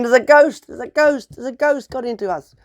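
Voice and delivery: high panicked shouting; terrified cry. A narrator's reading. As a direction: scream it while fleeing. Terrified robbers flee.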